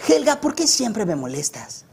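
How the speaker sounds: high, drawn-out cartoon boy complaint; Hey Arnold. Shown as a demonstration. Cartoon boy asking a girl why she bothers him, high slow voice. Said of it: "la voz de Hey Arnold".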